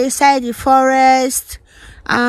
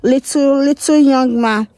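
talking around a lollipop; candy in the mouth; sucking a lollipop. Real, not acted. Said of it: "Sorry, guys, my lollipop".

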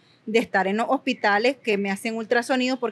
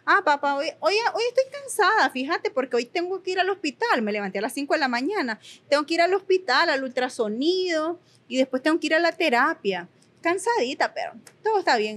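bright, quick, much higher chatty reply with no self-pity; cheerful, not self-pitying; 4 semitones higher than usual. Retold or imitated. Daughter chatting with her dad about a tiring hospital day, cheerful and quick. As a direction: tell papá you're tired but keep it light and upbeat. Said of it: "no se lo dije con un tono de victimismo".

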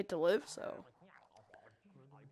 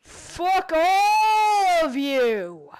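drawn-out yell; 4 semitones higher, 4 dB louder, much slower than usual. Real, not acted. Yelling at enemies in arena.

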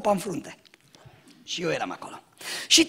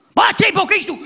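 mocking retort; 8 semitones higher, 4 dB louder than usual. Mocking the churchy term.

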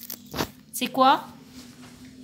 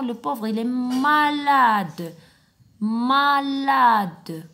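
pitying; 4 dB louder, much slower than usual. Shown as a demonstration. Teacher showing the children pity for a sick boy. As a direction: feel sorry for the little one, slowly.

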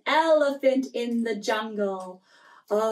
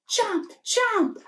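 alligator chomp; 8 semitones higher than usual. Pretend. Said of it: "this is what he said".

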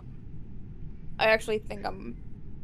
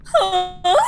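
high loud mocking huh; imitating her huh; 8 semitones higher, 8 dB louder than usual. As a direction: mimic her squeaky huh. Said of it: "That's what you sound like".

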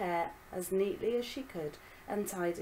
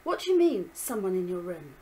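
alarmed; 6 dB louder than usual. Acted. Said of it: "He looked alarmed".

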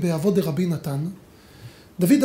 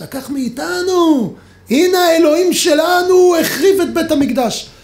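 loud, slow, higher jeering taunt; mocking shout; 7 semitones higher, 6 dB louder than usual. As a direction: jeer at the people triumphantly. Mocking gentiles quoted shouting.

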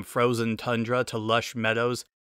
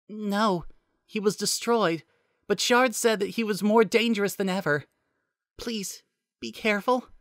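Nicole's voice; 10 semitones higher than usual. Acted.

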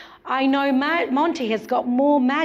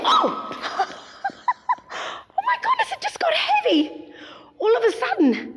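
high, laughing yelp of shock; shocked squeal, then a laugh; surprised. Acted. Bucket suddenly heavy, magic shock.

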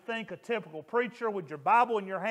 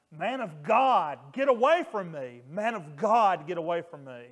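retold scream; 2 semitones lower, 4 dB louder than usual. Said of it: "they started screaming again".

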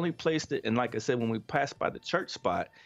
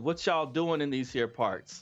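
small town sheriff drawl; 2 semitones higher than usual. Retold or imitated. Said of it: "He pulled up on us and said".

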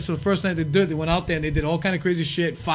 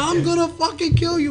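enraged threat; 11 semitones higher than usual. Retold or imitated. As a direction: threaten him at full rage. Sandman threatening cab driver.

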